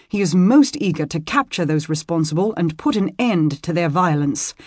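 lightly voiced young squire, solemn; earnest young squire. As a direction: explain gravely as a loyal boy.

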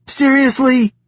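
rising disbelief. A narrator's reading. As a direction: push the protest up further and drop it. Knox protests their laughter.

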